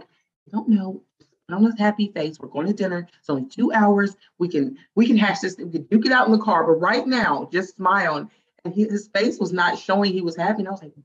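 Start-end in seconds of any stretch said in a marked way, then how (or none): 0.0-8.3 higher, louder insistent urging to her husband; pushy hushed urging. Retold or imitated. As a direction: push him to fake a smile before dinner. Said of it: "I'm like".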